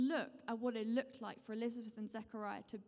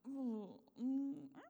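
uneasy, hesitant "ooh, mm, ah"; squeamish noises; 2 semitones higher, slower than usual. Retold or imitated. Preacher mimics the congregation's reaction to obedience, mildly squeamish. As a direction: voice the squirm people feel at the word. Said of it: "like a little bit squeamish".

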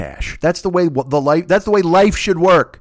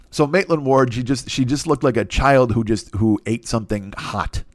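normal talking voice

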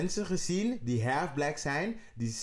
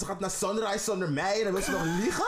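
higher, heated rant in character; mock outraged rant; 6 semitones higher than usual. Friend acting out Alicent's jealous rant, higher and heated. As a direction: vent like a scorned wife, pitched up.

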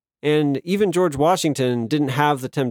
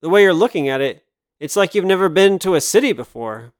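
put-on mid-Atlantic accent; 3 semitones higher, 4 dB louder than usual. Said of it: "She spoke in the strange sort of mid-Atlantic accent".

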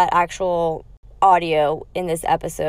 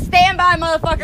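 retold threat; 8 semitones higher, 6 dB louder than usual. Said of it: "I said".

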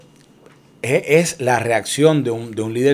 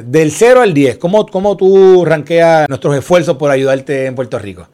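loud, higher quoted demand; retold pointed question; 3 semitones higher, 8 dB louder than usual. President quizzing the governor on his efforts, pointed mock demand. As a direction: put the question forcefully, imitating the asker.

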